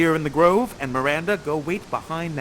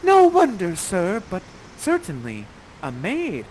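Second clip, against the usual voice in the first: lightly voiced young maiden; Miranda's reply; 3 semitones higher, 6 dB louder than usual. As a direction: answer sweetly and shyly. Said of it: "Miranda, you say".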